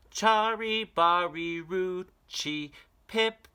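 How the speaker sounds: put-on high, slow, urgent child's voice; a small boy begging his mother to listen; little boy pleading. Boy tries the name again.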